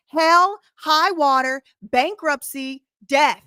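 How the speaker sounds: defiant loud list. Real, not acted. Defiant list of her resolve.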